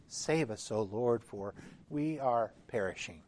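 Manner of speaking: solemn churchy reading of the disciples' cry; grave voice. Retold or imitated. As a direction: intone it gravely like a pious prayer. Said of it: "in a very grave voice".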